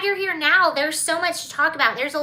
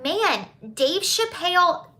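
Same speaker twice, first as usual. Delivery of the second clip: slipped Southern accent; 3 semitones higher, slower than usual. Real, not acted. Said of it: "I've been in the South too long".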